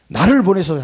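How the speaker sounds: 힘차게 선포하듯; fervent declaration. Shown as a demonstration. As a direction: proclaim it boldly. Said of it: "하는 거야, 나를 보내소서".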